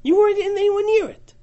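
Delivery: lightly voiced proud settler; Ephraim settler. Teacher voicing Ephraim settlers.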